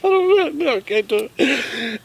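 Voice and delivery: high, mock-frightened whimper; hammed-up high, helpless protest; imitated panic. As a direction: play up someone balking in a panic. Imitating Heather panicking on boat.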